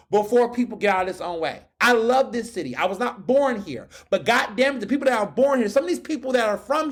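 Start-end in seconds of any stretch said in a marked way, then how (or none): none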